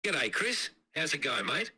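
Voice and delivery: casual Australian accent, a touch of pub chat; Aussie accent. Shown as a demonstration. AI voice greets the co-host, casual pub Australian accent. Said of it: "like a really Aussie accent, like you're at a pub".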